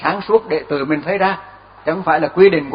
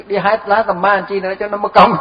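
higher voice tipping into a laugh; amused laughing; 5 semitones higher than usual. Real, not acted. Teacher joking about the hermit skipping nettle-picking, laughing. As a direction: finish the line on a real chuckle.

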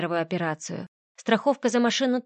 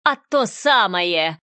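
louder, slow gloating bark; barking back; 5 dB louder, much slower than usual. Acted. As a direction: snap it back with malice. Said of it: "рявкнула она в ответ". (злорадно рявкнуть)

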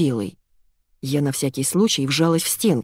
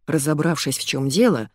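plain reading voice

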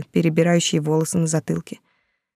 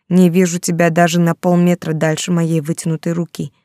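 plain reading voice

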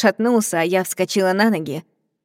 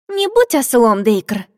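sharp scolding; 4 semitones higher, 4 dB louder, slower than usual. Acted. Ren scolds her brother.

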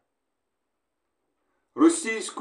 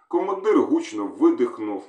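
ordinary delivery, nothing marked

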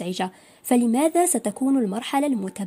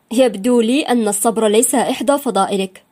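louder, lightly sarcastic lecture; nearly mocking; 8 dB louder than usual. A narrator's reading. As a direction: needle her with mild irony, louder. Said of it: "بلهجة قريبة من التهكم". (بلهجة فيها تهكم خفيف)

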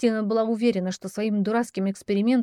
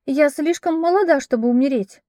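panicked outcry; 6 semitones higher, 5 dB louder than usual. Acted. Maid protests her death.

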